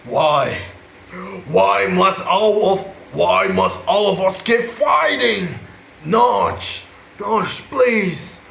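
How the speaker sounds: hammed-up anguished plea; lightly voiced tragic hero; mock dramatic Steve. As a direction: overact the inner conflict. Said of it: "Steve having an internal conflict".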